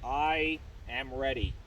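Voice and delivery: slow demo reply. Shown as a demonstration. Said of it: "are you ready".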